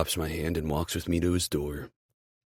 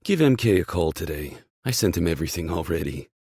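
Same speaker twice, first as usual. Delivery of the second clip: louder, brisk boss voice; team boss; 6 dB louder than usual. Acted. Boss sending player to make a call, loud and brisk. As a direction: push off loud, then rattle on briskly.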